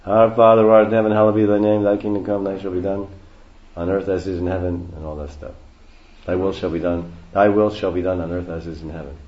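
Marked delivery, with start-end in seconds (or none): 0.0-4.9 rote Christian prayer. Shown as a demonstration. Showing how Christians pray, rote recitation. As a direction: rattle off the prayer in a steady recited monotone. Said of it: "Christians say like this".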